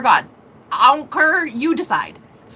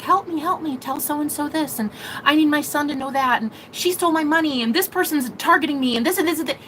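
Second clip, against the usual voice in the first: higher, whiny chorus of begging ghosts; mock pleading souls; 5 semitones higher than usual. Retelling the souls in the void, higher mock begging. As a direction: rattle off the ghosts' demands, higher.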